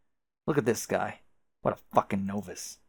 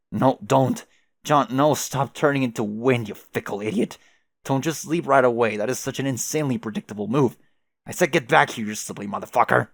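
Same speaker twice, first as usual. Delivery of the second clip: louder exasperated calls to a leaving friend; calling after him; 3 semitones higher, 6 dB louder than usual. Real, not acted. The speaker yelling at John as he blows away, exasperated calling. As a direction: yell after him to come back.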